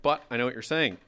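ordinary delivery

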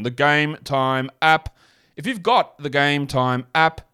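slow robotic ad read of "The Game Time app". Pretend. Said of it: "why do I sound like a robot then?".

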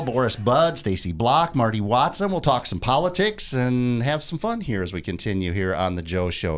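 upbeat on-air announcer read; bright radio promo voice; radio host plug. Acted. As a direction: sell the show to listeners. Host plugs show and phone.

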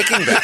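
high, laughing, Bad punched; teasing echo that lands on Bad; stress on Bad. Shown as a demonstration. Correcting how he said the show's name, stress on Bad.

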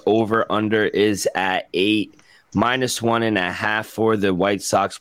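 droning like a sad robot; flat, slow robot reading numbers. Real, not acted. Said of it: "you sounded like a sad robot there".

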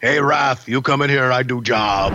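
broken English, lightly gruff; Barbarian impression. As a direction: play the Barbarian badly. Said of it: "my Barbarian impression".

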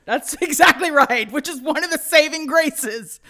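choked-up happy laughter; laughing through tears. Real, not acted. Laughing near tears over Disney.

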